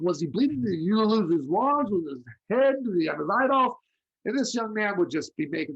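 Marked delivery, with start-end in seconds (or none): 0.0-3.8 mock-panicked mother, higher and louder; rapid worried questions, hammed up; alarmed mom. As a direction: parent fussing over a ghost story.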